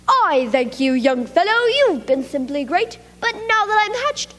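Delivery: a lightly voiced baby bird, thanking; mild mock-yelled thanks; little bird's yell. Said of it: "he said with a yell".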